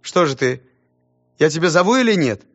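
high, loud hurrying teacher; impatient teacher. Acted. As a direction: press him, losing patience. Teacher hurries the pupil.

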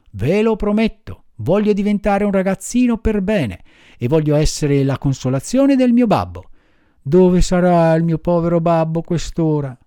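a hint of an eager puppet making promises; Pinocchio, earnest puppet. (burattino accorato, voce un po' più acuta)

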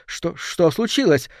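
slow, high startled cry; startled exclamation. Acted. Lady Sutton cries out into the frightening silence, startled. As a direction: gasp it out in the sudden hush. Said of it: "воскликнула в пугающей тишине".

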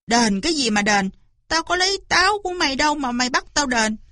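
fast, exasperated retort; irritated farmer's rapid protest; annoyed. Acted. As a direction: push back at an unfair demand. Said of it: "Bác nông dân bực mình nói".

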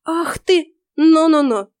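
high, loud startled cry. A narrator's reading. Witch backs away from the heroine, startled and loud. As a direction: jump back in alarm.

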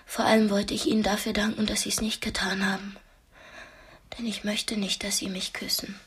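hushed, breathy whisper, barely voiced; a tense, secret whisper at the tea table; whispered confession. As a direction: whisper it so only he can hear. Confiding in her captor over tea.

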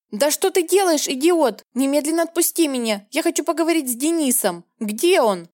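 high pleading shriek at the thug; визг. Acted. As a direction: shriek in panic, pitch up. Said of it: "Визжала". (визжит в панике)

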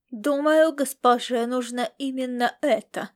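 self-important servant speaking through the nose; nasal, goose-like servant. Acted. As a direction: talk nasally, like a pompous footman. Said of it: "сказал он гнусавым голосом".

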